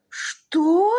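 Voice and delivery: high, loud crying outburst; shocked cry. Acted. Magnate learns the pig ate it, high loud cry. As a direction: wail in disbelief.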